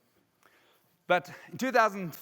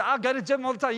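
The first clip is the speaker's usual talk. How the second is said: boastful quote; 6 semitones higher than usual. Retold or imitated. Quotes boasting people, animated.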